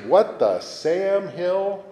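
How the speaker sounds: slow, high, drawn-out exasperation; grandma throwing up her hands; exasperated. Retold or imitated. Irish grandma voicing her frustration, slow exasperated exclamation. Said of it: "frustration or exasperation".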